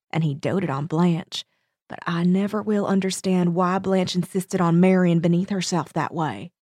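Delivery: tut-tut like a Southern matron; Southern accent. Acted. Cater Lee judging Blanche's marriage, Southern accent. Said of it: "That was an excellent accent".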